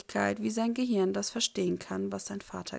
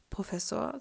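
unsure. Acted. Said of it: "sagt er unsicher".

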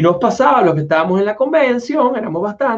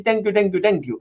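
put-on Indian accent thanks; 3 semitones higher than usual. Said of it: "hablar con acento".

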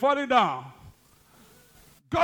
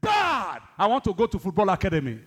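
mock child. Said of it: "the child says to you".

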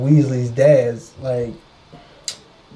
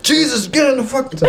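mock exasperated; 8 semitones higher than usual. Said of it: "They be like".

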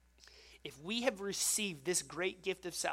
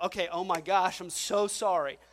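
out of breath; 5 dB louder than usual. Retold or imitated. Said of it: "I'm out of breath".

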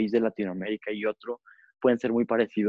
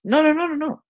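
emphatic denial; 4 dB louder than usual. Real, not acted. Niega con énfasis.

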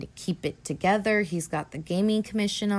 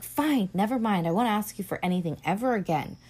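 mildly petulant, retold brush-off; bitchy huff; 2 semitones higher, faster than usual. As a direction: imitate a wife flouncing off, quickening at the end. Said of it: "a real bitch about it".

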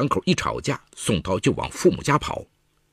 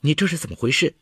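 shocked; 7 semitones higher than usual. A narrator's reading. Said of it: "程婉惊愕了".

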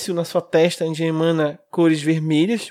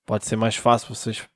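golem voice; 4 semitones lower than usual. Acted. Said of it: "Sou um golem".

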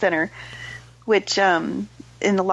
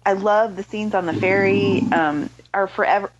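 talking through hiccups; hiccuping between words. Real, not acted. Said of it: "I'm sorry, I have the hiccups".

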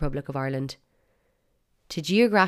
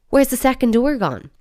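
mock outrage; 8 semitones higher, 9 dB louder than usual. Real, not acted. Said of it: "mock outrage at the English".

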